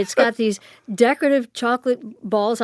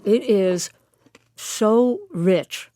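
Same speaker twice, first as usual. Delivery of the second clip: mouth full. Real, not acted. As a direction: talk around a bite of cake. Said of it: "pardon me for talking with my mouth full".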